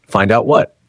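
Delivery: sharp, pressing question; demanding. Acted. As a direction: demand an answer from her. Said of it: "Daniel demanded".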